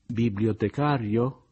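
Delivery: slow, rising incredulous question; mildly astonished, drawn out; a touch of disbelief; surprised exclamation. A narrator's reading.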